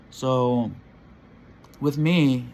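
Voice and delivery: talking around a lip of dip; words through a mouthful of dip; mouth full. Real, not acted. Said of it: "excuse me, I have dip in my".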